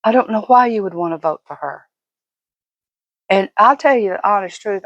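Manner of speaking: ordinary talk, nothing marked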